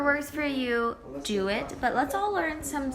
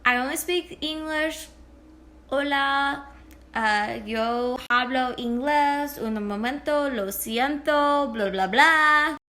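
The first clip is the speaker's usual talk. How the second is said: flustered English speaker; 3 semitones higher than usual. Retold or imitated. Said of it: "you're like".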